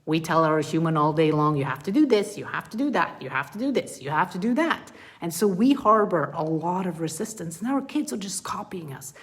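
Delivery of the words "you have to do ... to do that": nagging orders. Acted. Voicing our nagging orders to ourselves.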